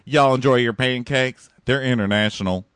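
a hint of a loud Southern grandma; grandma impression. Host recalling her grandma, lightly voiced proud grandma. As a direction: proudly offer pancakes like a sweet old lady. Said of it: "She'd be like".

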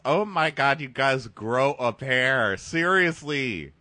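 slow, drawn-out disgusted telling-off; fed-up rebuke; exasperated scolding. Real, not acted. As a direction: stretch it out in weary disbelief. Scolding the tearful men.

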